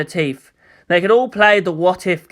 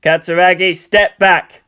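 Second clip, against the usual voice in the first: cutting tone; 4 dB louder than usual. Acted. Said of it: "with a cutting tone".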